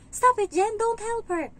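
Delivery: put-on high, loud, commanding kid voice; bossy child. The child forbidding the nanny to help someone, high and loud. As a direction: order her to stop like a spoiled boss. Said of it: "ayaw niyang tinutulungan ko".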